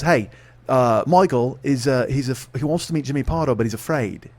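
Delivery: put-on tentative, half-hearted Australian accent; attempted Australian accent. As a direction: have an unsure go at an Australian accent. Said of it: "her Australian accent".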